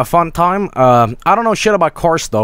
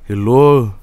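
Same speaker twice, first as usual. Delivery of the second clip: put-on Finnish accent; 4 semitones lower than usual. Streamer playfully imitating the developer, mock Finnish accent. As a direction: lower mock-Finnish greeting. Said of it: "the Finnish accent".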